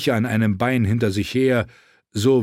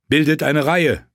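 raised voice, giving an order; commanding; 5 semitones higher, 4 dB louder than usual. A narrator's reading. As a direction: call out an order to the men. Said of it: "befahl Jon Snow ihnen". (mit erhobener Stimme befehlend)

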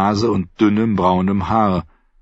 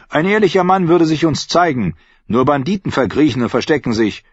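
harsh loud voice; 7 semitones higher, 3 dB louder than usual. A narrator's reading. Archer argues harshly.

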